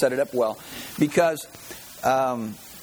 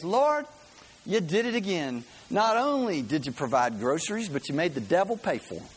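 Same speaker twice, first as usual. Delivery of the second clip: high joyful praise; triumphant grandma; 3 semitones higher than usual. Retold or imitated. Grandma answering the atheist, high joyful praise. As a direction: turn it back on him with delight. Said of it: "And she goes".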